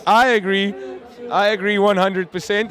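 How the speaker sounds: a light, hammed-up Afrikaans accent; half-hearted Afrikaans accent, slow; bad Afrikaans accent. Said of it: "Excuse my bad Afrikaans accent".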